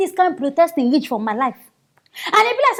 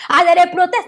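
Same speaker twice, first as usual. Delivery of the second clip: louder, rising on dey; emphatic build-up; 2 semitones higher, 4 dB louder than usual. Real, not acted. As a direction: push the setup up before the punchline. Repeats setup for the punchline.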